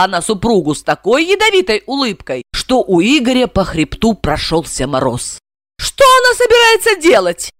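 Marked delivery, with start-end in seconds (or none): 5.8-7.5 high squeal. Acted. Блондинка визжит от страха, высоко. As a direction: squeal it in panic. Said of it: "проверещала блондинка".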